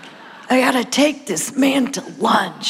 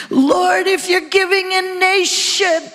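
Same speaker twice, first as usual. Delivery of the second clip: fervent prayer cry; 7 semitones higher than usual. Retold or imitated. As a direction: cry out your plea, raised up. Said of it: "I sobbed and I worshiped and I said".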